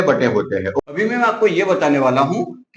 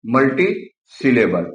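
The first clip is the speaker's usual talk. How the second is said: मल्टीसिलेबल said slowly with each part separate; slow, syllable by syllable; 5 semitones lower, slower than usual. Shown as a demonstration. Teacher slowly repeating मल्टीसिलेबल for students. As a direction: stretch मल्टीसिलेबल out for the class.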